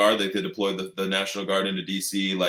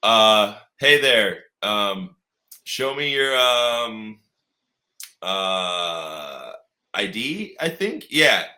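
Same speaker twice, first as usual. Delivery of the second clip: mock guardsman; 5 dB louder, much slower than usual. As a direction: fumble it like an unsure guardsman. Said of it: "Just like".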